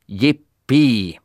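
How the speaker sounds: loud, high jubilant cry; cheering. A narrator's reading. Happy horse standing on its head, loud cheer. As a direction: shout for joy upside down.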